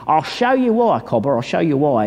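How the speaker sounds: lightly mimicked Australian mate; Australian accent. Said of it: "Is that a good Australian accent?".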